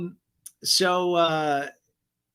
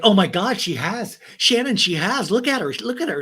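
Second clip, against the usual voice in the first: higher, louder mock alarm; excited accusation; 7 semitones higher, 5 dB louder than usual. Cast member pointing out her friend's secret, excited. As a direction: imitate a gleeful tattletale.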